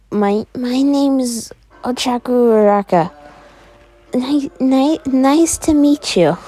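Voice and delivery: nervous. Acted. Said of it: "You don't have to be nervous".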